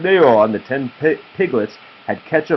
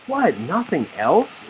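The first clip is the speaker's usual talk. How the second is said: snuffling piglets; 6 semitones higher, slower than usual. Acted. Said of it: "snuffled the piglets".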